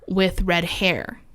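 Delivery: slow, eerie whisper. A narrator's reading. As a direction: whisper it like a ghost story. Spooky reveal of the apparition.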